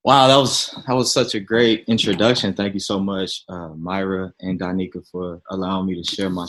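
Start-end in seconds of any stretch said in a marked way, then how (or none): 0.0-2.5 bright radio host voice, louder. Acted. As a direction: put on the radio announcer voice. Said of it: "my radio voice on real quick".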